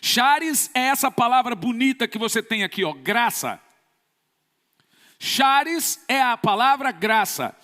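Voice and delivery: usual speaking voice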